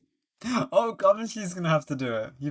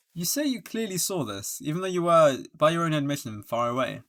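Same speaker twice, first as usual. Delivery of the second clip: courtroom cross-examiner; 5 dB louder than usual. Acted. Lawyer challenging what the witness saw, lightly pointed. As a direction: challenge the witness with a raised, emphatic start.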